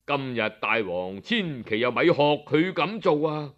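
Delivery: a minister begging his king to stop; earnest minister. Acted.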